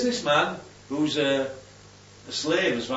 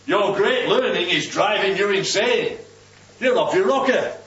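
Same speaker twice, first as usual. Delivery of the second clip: raised, emphatic accusation; acted shout; 4 semitones higher, 4 dB louder than usual. Hard-boiled Roman interrupting the defense, mildly shouting. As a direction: hammer it out as a heated interruption. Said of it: "he shouted".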